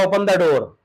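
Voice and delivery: plain firm command as a father; father ordering his son, firm plain command; father's order. Retold or imitated. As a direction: tell the son to open the door. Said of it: "पापा ने कहा".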